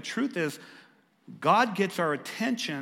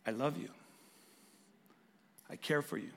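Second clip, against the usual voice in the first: much softer, tender murmur; gentle whisper; 3 semitones lower, 8 dB quieter than usual. Retold or imitated. Pastor voicing Jesus comforting the listener, soft and tender. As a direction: speak softly like Jesus reassuring. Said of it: "is whispering to you saying".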